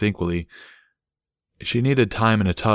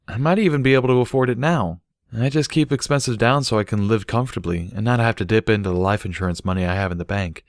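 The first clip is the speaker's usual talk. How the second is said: slightly higher, easygoing; lightly voiced Barry; 3 semitones higher than usual. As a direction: explain her thrift calmly. Barry on finances.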